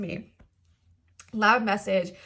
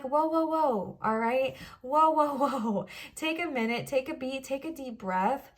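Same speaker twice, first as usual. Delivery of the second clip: calming down; 3 semitones higher, slower than usual. Acted. Reader talking herself down from self-blame, soothing. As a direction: rein someone in, then settle them.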